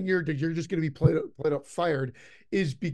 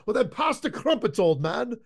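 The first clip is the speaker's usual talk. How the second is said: lightly imitated wisecracking movie student, pitched up; a hint of a cheeky heckler, higher then dropping; Dave character impression; 5 semitones higher than usual. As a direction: retell the punchline in a higher voice. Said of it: "then the Dave character goes".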